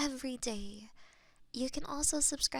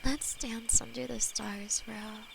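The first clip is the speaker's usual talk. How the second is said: whispered demon lover; 4 semitones lower than usual. Acted. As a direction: hold them close and murmur tenderly as a loving demon. ASMR demon lover roleplay.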